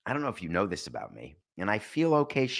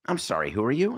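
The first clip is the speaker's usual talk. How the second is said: woman's line; 4 semitones higher, faster than usual. Retold or imitated. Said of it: "retold Fletch scene".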